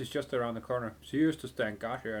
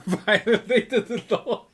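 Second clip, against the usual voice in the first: loud, higher, slow meme line breaking into laughter; mock guard meme; 10 semitones higher, 11 dB louder, much slower than usual. Streamer doing the guard meme, laughing through it. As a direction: ham up the game guard and crack up. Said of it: "couldn't resist the Blue Oblivion meme".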